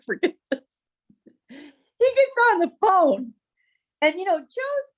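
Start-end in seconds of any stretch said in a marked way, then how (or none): 1.5-3.3 slow, higher, louder buildup; dramatic slowdown. Real, not acted. Teller building suspense for listeners, slow and loud. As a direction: stretch it out for suspense.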